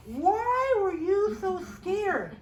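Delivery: slow questioning. Acted. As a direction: stretch the words as you challenge them. Jesus questioning his scared friends.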